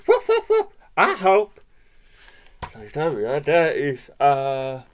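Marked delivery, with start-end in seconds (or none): 0.1-0.7 very high, loud triple bark; dog language. A narrator's reading. Dog offers help in dog language, high loud barks. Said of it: "in dog language". 1.0-1.6 higher, loud offer; dog's words, lifted and loud; translated dog speech. A narrator's reading. Dog offers help with the chase, high and loud. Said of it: "in dog language".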